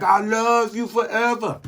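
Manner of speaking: high, slow doting dog voice; happy dog voice. Pretend. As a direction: gush like an adoring dog.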